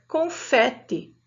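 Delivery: "confete" with an open eh in "fe"; open vowel. Shown as a demonstration. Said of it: "o som do E é aberto".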